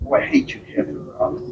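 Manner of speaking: a tourist lady teasing the captain, voice dropping to near silence at the end; mock lady's complaint. Tourist lady grumbling at the boat captain, imitated high then hushed. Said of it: "Lady goes".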